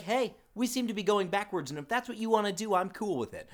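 imitated unbothered passenger. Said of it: "as if he's just like".

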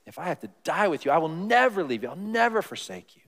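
fast, emphatic boast; bold promise. Retold or imitated. Peter boasting to Jesus he'll never leave, fast emphatic vow. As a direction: swear it like a big vow. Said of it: "Big words".

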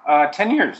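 talking while chewing almonds; chewing between words; mouth full. Real, not acted. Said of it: "Sorry, I'm eating almonds".

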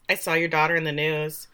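low, softened calm menace. Retold or imitated. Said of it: "like, very calmly says".

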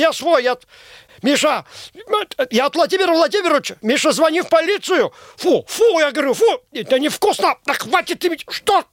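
frantic high yelling at wolves; panicked shouting. Acted.

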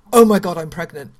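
loud, abrupt mock outburst of shock; retold shock. Interviewer recalling her own first pregnancy, shocked outburst. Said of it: "that kind of shock moment".

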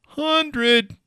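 high, very slow stretched hundred; drawn-out disbelief. Real, not acted. Disbelief at the phone price.

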